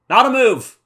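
high, loud correction; hammed-up loud objection; mock exasperated shout. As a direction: cry out in mock outrage. Acted objection to Ash's wrong command.

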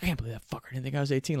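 quick, mildly indignant retold gripe; genuinely upset. Buddy offended at being taken for underage, upset. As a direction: imitate an offended buddy, fast. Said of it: "he's genuinely upset".

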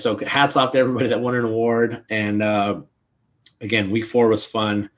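losing voice, hoarse and strained. Real, not acted. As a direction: talk through a worn-out hoarse throat. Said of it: "I have no voice".

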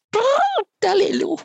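very high trilled bird cry; trill, then a high ringing call; loud bird call. A narrator's reading. Clumsy bird calls out before jumping from the branch, loud cry. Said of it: "en riep heel hard".

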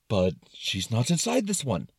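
mildly fretful objection; concerned Brain. Acted. Brain objecting about the car, mildly concerned. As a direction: object with a touch of worry. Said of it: "in a very concerned tone".

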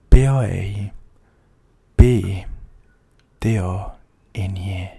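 slow, letter by letter; spelling it out. Shown as a demonstration. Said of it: "Meu Twitter é".

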